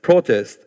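"Protest" with a strong first syllable; PRO-test, falling away on the second syllable; corrected stress. Shown as a demonstration. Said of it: "my Italian still coming through".

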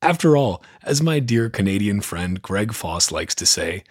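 ordinary talk

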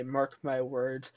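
dramatic. Shown as a demonstration. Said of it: "Had to add that dramatic effect".

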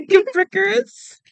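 laughing through a hard word; laughing mispronunciation. Real, not acted. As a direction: giggle while sounding it out.

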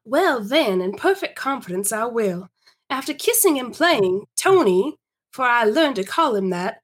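measured period-story reading; story narration. Acted. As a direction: read it aloud as a storyteller. Reads Laura's story.

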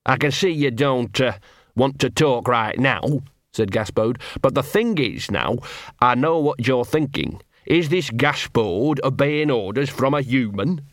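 lightly voiced scruffy street dog, chummy; a small mongrel wheedling a friend; Gaspode the dog. Scruffy dog to hidden wolf, lightly voiced.

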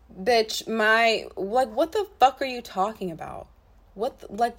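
furious disbelief at the racist text; outraged. Real, not acted. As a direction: blast the question out in outrage.

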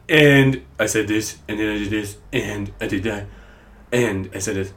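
lightly voiced Trump rambling; terrible Donald Trump impression. Mocking Trump's rambling, a faint Trump voice. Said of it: "terrible Donald Trump impression".

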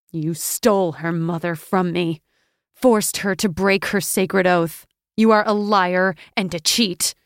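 rising to a loud, furious accusation; Athena cries out at the sea god in fury; angry cry. Acted. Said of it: "cried Athena".

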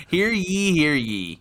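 laughing herald call; town crier. Acted. Playing herald.

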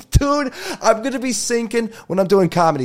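high-pitched, through laughter; laughing excitedly. Real, not acted. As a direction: crack up at your own absurd idea. Cracks up at own idea.

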